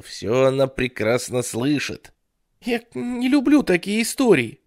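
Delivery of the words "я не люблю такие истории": put-on high, louder whiny child; whining little boy. Ray whines at the babysitter, high whiny child. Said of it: "захныкал Рэй".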